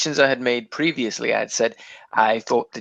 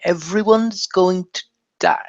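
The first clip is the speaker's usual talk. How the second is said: high, hushed doom whisper; ominous whisper; 6 semitones higher than usual. Acted. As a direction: whisper it like a grim prophecy. Ominous hushed repeat of the doom line.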